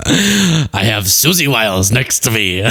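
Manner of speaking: slow, failed impersonation; a presidential accent morphing into something else; Trump. Acted. Commentator attempting the president again, slow slipping impersonation. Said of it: "My Trump accent's morphing".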